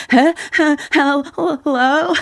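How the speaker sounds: frantic high-pitched hello into the phone; a caller in sudden alarm; high panicked hello. Retold or imitated. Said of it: "and I'm like".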